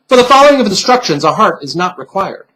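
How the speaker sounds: a hint of a prim, high lecturing voice; lightly voiced stuffed bunny. Bunny pin chiding the girl for the punishment, prim and high.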